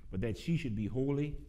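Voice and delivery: measured pulpit reading with pauses between phrases; scripture reading. Real, not acted. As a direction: read the verse out to a congregation, easing down at the close. Reads Bible verses aloud to congregation.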